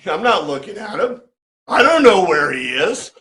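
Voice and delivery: flippant, almost teasing the questioners; a wisecrack instead of a plain answer; sarcastic answer. Shown as a demonstration. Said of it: "But in the Greek, he's going".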